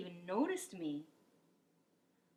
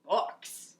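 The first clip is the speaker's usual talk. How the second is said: confused; 3 dB louder than usual. Acted. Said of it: "Braid Beard looked confused".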